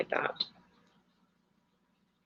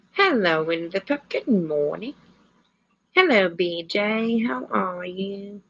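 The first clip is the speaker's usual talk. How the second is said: English accent. Real, not acted. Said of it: "I talk like I'm English sometimes".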